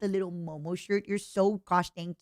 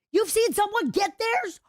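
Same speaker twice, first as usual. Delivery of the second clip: surprised disbelief; 5 dB louder than usual. Real, not acted. Disbelieving chat.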